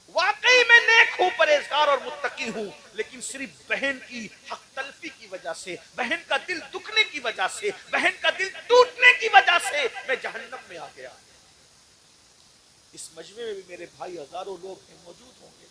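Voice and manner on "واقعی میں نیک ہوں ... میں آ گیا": high, loud mournful cry; preaching lament. Real, not acted. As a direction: cry the soul's regret to the crowd. Soul's lament, preached at climax. (بلند پرسوز پکار)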